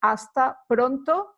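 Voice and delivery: Hasta pronto said as asta, with no H; silent H. Shown as a demonstration. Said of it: "we don't pronounce the H".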